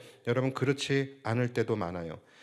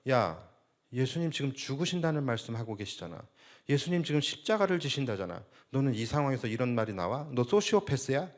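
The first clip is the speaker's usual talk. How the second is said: restrained, self-righteous mock rebuke; imitated righteous anger. Preacher imitates disciples rebuking James and John, understated righteous indignation. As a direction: scold with a noble pretext, holding the anger in. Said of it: "이렇게 의로운 명분을 가지고서 화를 냈을 거예요".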